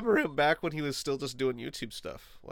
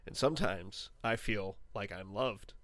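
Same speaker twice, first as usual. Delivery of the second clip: small and wistful; 4 semitones lower, 7 dB quieter than usual. Pretend. Self-deprecating intro trails into near whisper.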